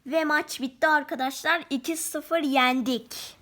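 loud final-whistle announcement; football commentator. Acted.

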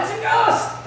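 high, loud frightened cry of ghost; terrified yell. Retold or imitated. Disciples in the storm screaming in fear at a ghost. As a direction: shriek it like a scared fisherman. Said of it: "they yell out".

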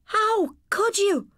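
high, loud, slow shocked cry; horrified at her brother; shocked gasp. Acted. Sister catches brother stealing, shocked high cry. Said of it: "she gasped".

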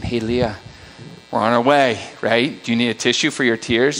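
low, soft-spoken retold dad question; understated, low fatherly concern; gentle dad check-in. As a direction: imitate a dad gently checking on his child. Dad gently checks on daughter in car.

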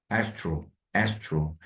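Astro said softly, falling; isolated syllables. Shown as a demonstration. Teacher breaking astronomy into parts. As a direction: split astro off the word. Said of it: "두 번째 강세가 있죠?".

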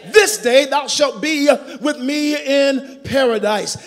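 slow, shouted preaching of the promise; shouted proclamation. Shown as a demonstration. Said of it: "somebody shout".

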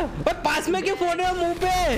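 high-pitched urgent complaint to a teammate; alarmed protest. Real, not acted. Scolds teammates firing rockets close.

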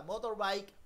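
put-on "motorbike" said slowly and clearly for the child, MO-tor-bike; teacher modelling "motorbike" with full vowels; model pronunciation. Shown as a demonstration. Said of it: "Pronuncia, María Paula".

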